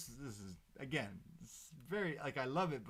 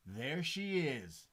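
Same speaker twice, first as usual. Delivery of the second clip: drawn-out, louder mock reveal; excited reveal; 3 semitones higher, 5 dB louder, much slower than usual. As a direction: announce it slowly, with mild awe. Retelling a wrestler's excited reveal.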